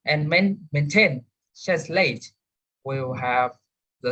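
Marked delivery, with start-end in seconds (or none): 0.7-2.3 maintain and translate stressed on TAIN and LATE; weight the last syllable of maintain, translate; second-syllable stress. Shown as a demonstration. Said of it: "in the second syllables".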